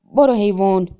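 loud urging yell at the horse; angry, anxious shout. A narrator's reading. Simon driving the horse into the river, angry anxious shout. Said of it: "خشمگین و مضطرب داد زد".

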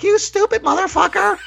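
very high-pitched mock-angry squeal; imitated angry outburst. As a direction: mimic a startled woman cursing in a high voice. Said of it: "And got very angry".

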